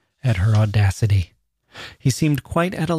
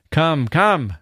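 impatient, higher, pushy; 5 semitones higher than usual. Acted. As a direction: hurry him up, impatiently. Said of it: "said the king impatiently".

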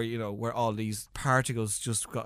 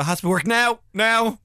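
loud, higher insistent order; acted impatient demand; 9 semitones higher, 8 dB louder, slower than usual. Irish TV bosses demanding instant results, acted impatience. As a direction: demand it loudly, no patience.

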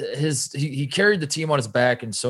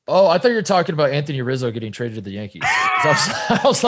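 laughing. Real, not acted. Mishears topic, laughs loudly.

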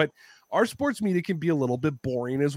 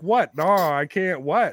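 shocked disbelief; 2 semitones higher, 3 dB louder, slower than usual. Retold or imitated. Hearing the team is getting fired, shocked disbelief. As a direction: react like you can't believe it.

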